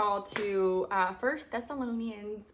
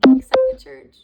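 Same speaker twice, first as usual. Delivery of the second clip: excited shout; 7 semitones higher, 15 dB louder, slower than usual. Retold or imitated. Voicing God rallying the church, shouting. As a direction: GET EXCITED yelled high and loud. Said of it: "telling us all, like".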